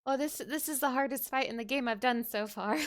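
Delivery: ordinary talk, nothing marked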